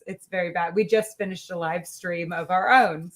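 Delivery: hiccuping while talking; hiccups. Real, not acted. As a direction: talk through hiccups. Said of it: "I have the hiccups".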